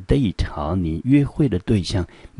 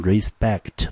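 slow pronunciation demo; 2 semitones higher than usual. Shown as a demonstration. Teacher showing students how the word is read, slow demo. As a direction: draw out respect slowly. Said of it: "第一个音节".

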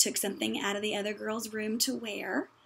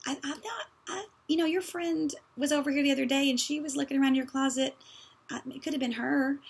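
evasive deflection; 4 semitones higher than usual. Retold or imitated. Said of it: "the unnamed source is".

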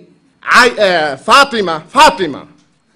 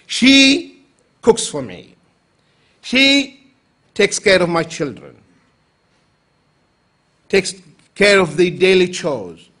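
fond praise; slower than usual. Retold or imitated. Umar praising his wife.

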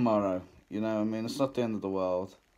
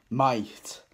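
whispered, unvoiced might. Shown as a demonstration. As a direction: drop to a teasing whisper. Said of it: "Although, I might".

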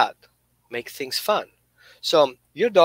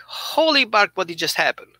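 a hint of a stunned dog, high on the first words; amazed dog; 4 semitones higher than usual. Dog baffled at getting both treats, mock astonished. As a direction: gasp it out like a dog who can't believe it. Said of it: "your dog is like".

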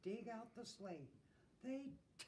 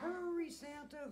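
hooting owl; 9 semitones higher, 7 dB louder than usual. A narrator's reading. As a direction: hoot it out loud and high. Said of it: "hooted Owl".

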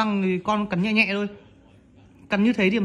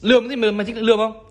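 scolding. Real, not acted. Mother scolding baby for glaring.

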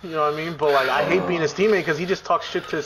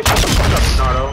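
retold yell; 4 semitones lower, 7 dB louder than usual. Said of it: "I just say".

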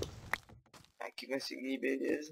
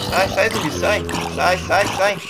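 loud, higher shouts to drive them off; yelling; 3 semitones higher, 7 dB louder, slower than usual. Real, not acted. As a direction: shout them away in a panic. Zombies climbing up, yelling at them.

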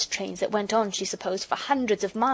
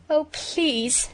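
a higher, tearful little "please"; sniffling plea; 7 semitones higher than usual. A narrator's reading. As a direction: beg through sniffles. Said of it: "sniffed Bobbie".

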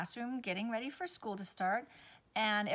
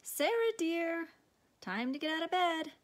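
higher, louder gentle dad calling; father waking daughter; 9 semitones higher, 5 dB louder than usual. A narrator's reading. Father rousing his daughter for school, lightly voiced. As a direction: call her up out of bed like a kind father.

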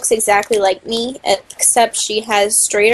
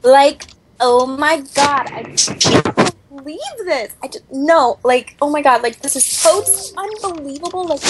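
put-on White Girl Tetra voice; 4 semitones higher than usual. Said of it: "do the voice".

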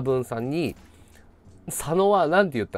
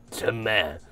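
whispered call; 6 semitones lower, 6 dB quieter than usual. Retold or imitated. Imitating a colleague's call.

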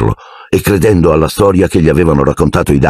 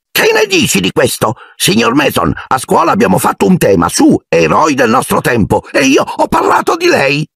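mock flattery. A narrator's reading. Dudley rehearses flattering speech.

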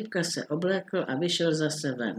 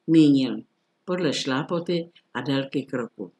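usual speaking voice

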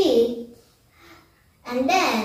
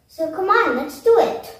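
excited; 7 semitones higher, 4 dB louder than usual. Real, not acted. Kid urging viewers to join.

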